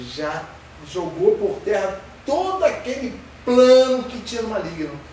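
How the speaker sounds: ordinary talk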